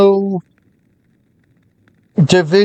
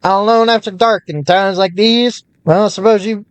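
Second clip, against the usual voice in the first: lightly voiced old-time merchant; a hint of vintage radio announcer; 1930s newscaster voice.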